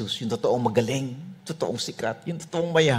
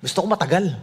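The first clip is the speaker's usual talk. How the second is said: ordinary talk, nothing marked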